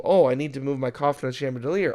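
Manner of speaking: imitating a matter-of-fact movie line; played completely straight, slightly quick; deadpan serious. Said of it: "it's played off very seriously".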